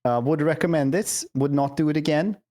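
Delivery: put-on Scandinavian accent. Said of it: "are you gonna keep this up for the full thing".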